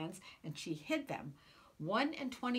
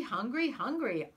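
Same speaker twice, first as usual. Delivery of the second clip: put-on baby hollering; 5 semitones higher, 4 dB louder than usual. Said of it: "The baby began to holler too".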